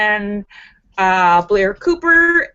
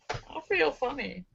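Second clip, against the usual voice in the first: cannibal voice; 13 dB quieter than usual. Acted. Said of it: "said the cannibal".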